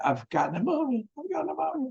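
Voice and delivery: thin, soft, wispy, very high-pitched voice. Retelling their own words to a woman after coming back from the doctors, wispy voice. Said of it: "in a wispy voice".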